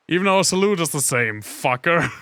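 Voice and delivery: loud, high mocking repeat. Shown as a demonstration. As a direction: throw the line back sarcastically. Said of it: "repeats it mockingly".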